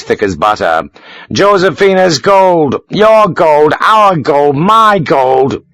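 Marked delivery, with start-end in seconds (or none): 1.3-5.6 high, louder triumphant crowing; exultant. A narrator's reading. Sharp tossing gold coins at Josefina, exultant crowing. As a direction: gloat as the coins scatter.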